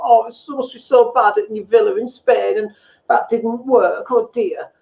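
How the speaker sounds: imitating a friend's patronising sympathy, slowed; mock pity. Mate Dave mock-sympathising over the Spanish villa, patronising. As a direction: pretend to feel sorry while sneering. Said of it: "he's got an ability to sound like".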